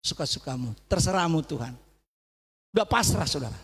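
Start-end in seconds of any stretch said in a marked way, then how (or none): 0.0-1.7 surrendering prayer. Retold or imitated. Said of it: "Langsung saya berlutut".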